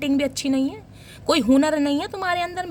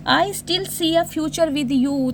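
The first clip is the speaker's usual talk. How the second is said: slow reading; much slower than usual. Shown as a demonstration. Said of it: "reads card message slowly".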